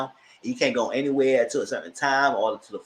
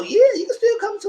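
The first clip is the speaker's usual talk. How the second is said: imitating Keandre; 7 dB louder than usual. Voicing Keandre on the show.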